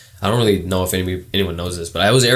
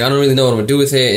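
fast, higher imitation of a girl; Cali girl voice; 5 semitones higher, 4 dB louder, faster than usual. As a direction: mimic a Cali girl, quick and pitched up. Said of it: "That's the Cali voice".

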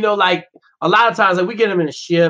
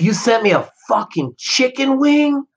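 mock outrage; 7 semitones higher, slower than usual. Friend retelling an outraged phone call.

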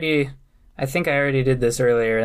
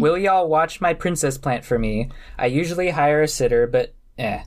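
Princess Bubblegum read; 2 semitones higher than usual. Acted. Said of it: "I like it when you read it like that".

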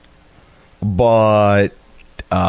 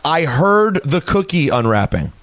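slow, higher-pitched, emphatic tweet readout; mock-emphatic all-caps reading; 4 semitones higher, slower than usual. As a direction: stretch out each word as if in capitals. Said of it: "In all caps".

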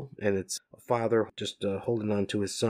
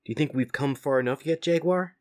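tired Leo; 7 semitones higher, 3 dB louder than usual. Acted. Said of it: "asks Leonardo".

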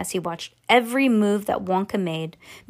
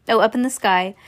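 plain reading voice

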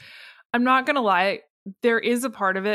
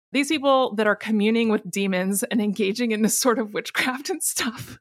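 trying not to laugh but failing; breaking into laughter; 3 semitones higher than usual. Real, not acted. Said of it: "I said I wouldn't laugh".

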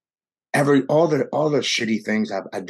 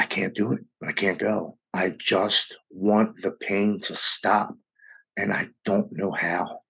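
despairing plea; 3 dB quieter, slower than usual. Retold or imitated. Suicidal, wife finds him.

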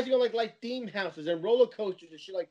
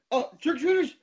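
high, delighted cry; thrilled to spot kids at the door; excited; 9 semitones higher than usual. Retold or imitated. Spotting trick-or-treaters at the in-laws, delighted. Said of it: "I like".

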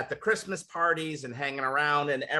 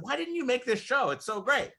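quoting his wife; 9 semitones higher than usual. Retold or imitated. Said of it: "my wife turned to me and said".

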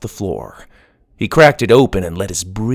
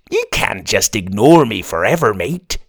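pirate voice. Acted. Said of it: "it said".

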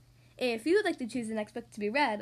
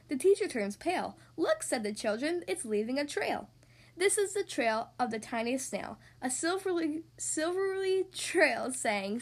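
measured, lilting read of a rhyming tale; children's story narration. A narrator's reading. Podcast host reading a snail and whale tale to children, storytelling. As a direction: read the rhyme clearly for young listeners. Reads a picture book to children.

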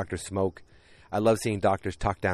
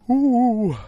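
mock gasp; 10 dB louder than usual. Mock reaction to the lump.

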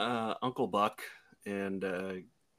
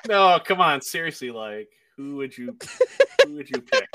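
trying not to laugh; 6 dB louder than usual. Real, not acted. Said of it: "Sorry, I can't stop making me laugh right now".

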